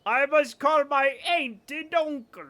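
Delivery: slow careful demo of aunt and uncle; slow demo sentence. Shown as a demonstration. Streamer demos aunt and uncle to chat, slow and careful. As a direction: read it slowly like a pronunciation example. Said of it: "demo sentence".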